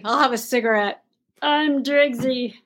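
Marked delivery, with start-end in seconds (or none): 1.4-2.5 slow, lightly put-on Driggsy voice; hint of a husky vamp persona; playful self-parody. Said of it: "I'll come as Driggsy".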